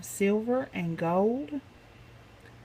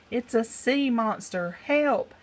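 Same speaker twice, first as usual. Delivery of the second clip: howled yelp; 3 semitones higher than usual. Acted. Pirate chief howling in fright at the sock monster, higher. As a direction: panicky cry jumping much higher on help. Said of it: "howled the chief with a yelp".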